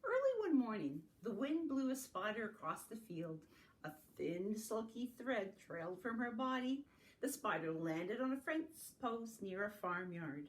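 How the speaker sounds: lilting picture-book narration; reading to children. A narrator's reading. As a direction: read it aloud to little ones.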